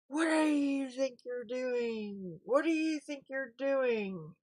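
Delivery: mock scold like a cussing grandfather; angry grandpa. Grandpa scolding the Mattel people, lightly voiced anger. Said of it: "I can just hear him now".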